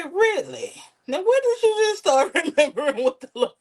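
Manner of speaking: high, incredulous mock of someone suddenly pious; sarcastic mother. Mother mocking someone who suddenly cites the Lord, sarcastic high voice. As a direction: jab at them with a sarcastic "really".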